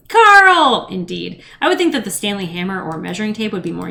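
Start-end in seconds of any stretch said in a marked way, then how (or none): 0.1-0.9 sudden high yell of a name; shouted name. Pretend. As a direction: blurt the name out loud and high. Sudden call out, meme reference.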